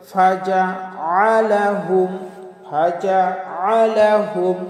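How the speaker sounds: ফাজআলাহুম with the ain pressed, slow; correct ain. Shown as a demonstration. Teacher giving the correct ফাজআলাহুম. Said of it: "কি বলতে হবে".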